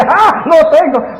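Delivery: lightly acted triumphant exclamation; gloating Satan. Satan after his chess move, in mock triumph. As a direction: crow over a winning move, lightly hammed up.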